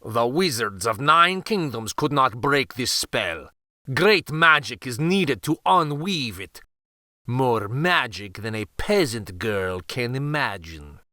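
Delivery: haughty vizier. Acted. Vizier lecturing the peasant girl with lightly voiced contempt. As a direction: talk down to her like a peasant.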